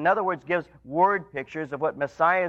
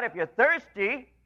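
raised, slow calling out; crying out; 6 semitones higher than usual. Retold or imitated. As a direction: call it out slowly like an open invitation. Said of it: "he cries out".

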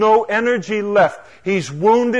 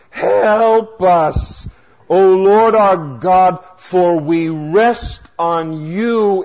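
raised, emphatic pulpit prayer; Asa crying out; 2 semitones higher, slower than usual. Acted. King praying before battle, crying out. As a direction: call out to God, leaning on the key words. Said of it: "He cries out to the Lord".

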